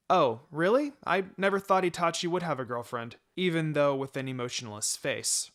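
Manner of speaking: hammed-up fake shock. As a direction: overplay the astonishment a little. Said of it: "I said, fake shocked".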